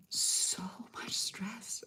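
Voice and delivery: drawn out, breathed on air; slow weary whisper. Real, not acted. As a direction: let the weight of it sink in slowly. Exhausted recollection.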